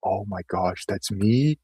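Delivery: marvelling at friends frozen over the keyboard; amazed realization. Retold or imitated. Retold realization while high.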